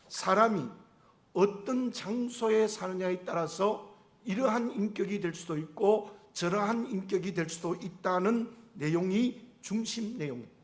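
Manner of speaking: ordinary talk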